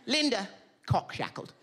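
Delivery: women mocking a friend like lads would; gossiping women. Hammed-up gossipy shout. Women mimicking bloke talk.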